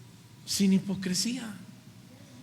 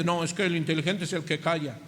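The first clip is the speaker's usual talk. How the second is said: quick, lightly voiced know-it-all; a hint of a smug churchgoer; smug quick excuse; 4 semitones lower, 4 dB quieter, faster than usual. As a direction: brush it off fast as if wise. Quoting a self-justifying listener.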